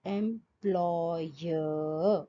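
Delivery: employer with a drawn-out oya glide; triphthong demo. Shown as a demonstration. Teacher modelling a triphthong, slow. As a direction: stretch the middle of employer. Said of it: "take the example like employer".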